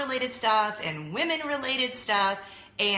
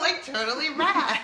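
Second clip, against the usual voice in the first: put-on valley girl; 6 semitones higher, 4 dB louder than usual. Host joins 80s lingo.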